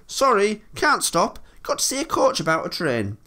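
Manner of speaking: high, quick, breaking away; rushed apology, speeding up at the end; hurried. A narrator's reading. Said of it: "he went on hurriedly".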